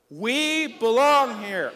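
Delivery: booming, drawn-out shout; really loud shout. Shown as a demonstration. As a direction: belt it out slowly, high and loud. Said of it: "say it really loud".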